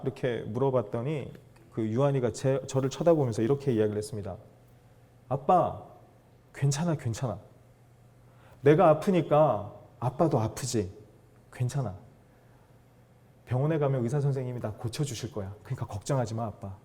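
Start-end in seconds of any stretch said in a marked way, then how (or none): 5.3-16.7 gentle reassurance. Retold or imitated. Retold child comforting her father.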